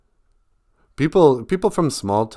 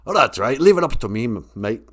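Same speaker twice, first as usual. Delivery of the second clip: louder, higher mock reproach; sarcastic higher power; 6 semitones higher, 6 dB louder than usual. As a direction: answer a lazy worshipper sarcastically. Voices higher power replying to him.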